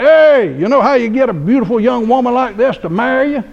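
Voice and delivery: imitating Alec bragging about his young wife; loud imitation. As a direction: brag it out like a brash old man. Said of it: "He talked like that".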